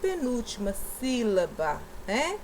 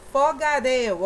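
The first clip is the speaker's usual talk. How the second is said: "Fogaréu" loud, landing on "réu"; stress on last syllable; 2 semitones higher, 6 dB louder than usual. Shown as a demonstration. Teacher showing pupils the last syllable, loud stressed "réu". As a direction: push the final "réu" of Fogaréu. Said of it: "ó, última sílaba".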